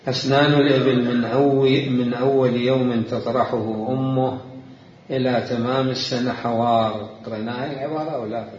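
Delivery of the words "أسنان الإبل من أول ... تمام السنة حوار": louder, measured classical Arabic reading; formal reading aloud. Real, not acted. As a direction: read the text out as a lecturer. Reads a book definition. (قراءة نص بالفصحى بصوت جهوري)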